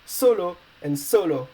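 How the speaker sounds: both "Solo" and "solo" stressed on the first syllable; identical pronunciation. Shown as a demonstration. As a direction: say Solo and solo exactly alike, SO-lo. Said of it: "to be pronounced the same".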